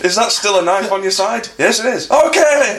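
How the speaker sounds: high-pitched mock compliance; comic acted exchange. Friend spoofs buying beer for knife-carrier, high-pitched. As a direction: act it out, rising to a squeaked okay.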